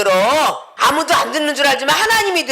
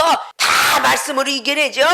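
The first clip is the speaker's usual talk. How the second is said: ordinary delivery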